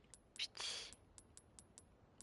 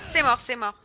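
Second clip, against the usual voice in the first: shouting it's over in frustration; loud yell; 3 semitones higher, 12 dB louder than usual. Real, not acted. Gamer yelling at the screen, loud frustrated shout. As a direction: yell it out, fed up. Streamer yelling at game failure.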